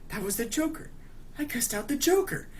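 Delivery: high-pitched, acted-out dread; imitating someone freaking out; mock panicked realisation. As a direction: squeak it out like a horrified driver. Acts out driver's horrified realisation.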